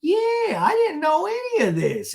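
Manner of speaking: high, drawn-out mock whine; hammed-up slow protest; Gina. Gina claiming she didn't know, mock whine. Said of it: "And Gina goes".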